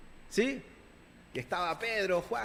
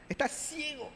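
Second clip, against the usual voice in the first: blunt rebuke; 4 semitones higher than usual. Retold or imitated. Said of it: "en pocas palabras".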